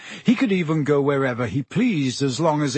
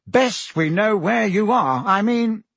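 flustered Minister voice; 7 semitones higher, 3 dB louder, slower than usual. A narrator's reading. Fudge voiced by narrator.

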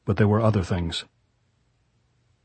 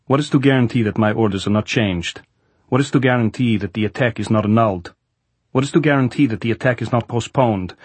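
raised, rising frustration; exasperated general; 3 semitones higher, 3 dB louder than usual. Acted. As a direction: vent at the lost attacks. Goltz rants about attacks.

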